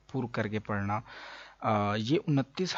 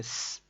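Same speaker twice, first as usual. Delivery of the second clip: hissing s; 8 dB quieter than usual. Shown as a demonstration. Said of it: "اس طرح کی آواز نکل رہی ہے".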